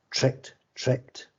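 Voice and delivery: breathy whisper, voiceless; whispered thought. Acted. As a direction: hiss it to yourself. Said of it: "Nagina thought".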